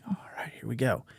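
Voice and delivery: hushed hunter's whisper. Retold or imitated. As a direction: whisper it so the deer won't hear. Spotting deer in hunting blind.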